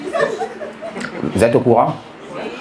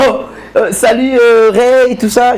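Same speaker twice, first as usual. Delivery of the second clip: put-on shy girl voice; 8 semitones higher, 3 dB louder, slower than usual. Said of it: "Elle m'appelle".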